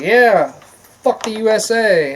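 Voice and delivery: slow, drawn-out sneering quote; mock him with a slow sneer; lightly voiced sneering athlete; mock Kaepernick. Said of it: "started being like".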